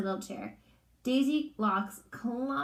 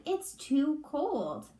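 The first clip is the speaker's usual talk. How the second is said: put-on complaining girl; 5 semitones higher, much slower than usual. Daisy voiced in story.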